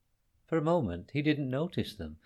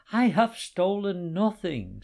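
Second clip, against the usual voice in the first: protest; 7 semitones higher, 5 dB louder than usual. A narrator's reading. Man denies accusation firmly.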